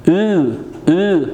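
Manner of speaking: "او" as a long German ü with pursed lips; drawn-out, isolated ü for "او"; umlaut demonstration. Shown as a demonstration. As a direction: model "او" as ü, rising then falling. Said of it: "یوی املات دار".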